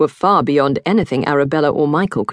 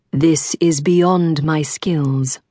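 very slow, measured creature; calm alien voice; much slower than usual. Acted. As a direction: speak slowly, gravely. Alien guardian voice.

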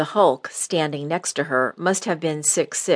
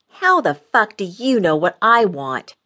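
loud furious snarl, pitched higher; 5 semitones higher, 6 dB louder than usual. A narrator's reading. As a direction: spit it at her mother in rage. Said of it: "Cassie snarled".

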